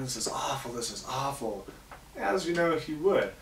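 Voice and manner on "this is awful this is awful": mock crying. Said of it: "Husband starts crying".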